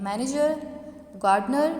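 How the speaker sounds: मैनेजर, गार्डनर, each opening loud; stress on first syllable. Shown as a demonstration. Teacher demonstrating to students, first syllables of मैनेजर, गार्डनर stressed. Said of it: "हम loudly pronounce कर रहे हैं".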